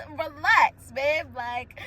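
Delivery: soft laughing. Real, not acted. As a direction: chuckle it out gently and slowly. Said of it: "I can laugh because".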